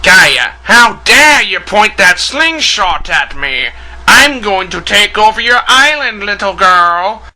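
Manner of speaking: slow, hammy Snidely Whiplash-style villain; lightly voiced old cartoon villain threatening a girl; old-school villain. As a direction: menace the little girl like a cartoon cad. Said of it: "that old school villain voice".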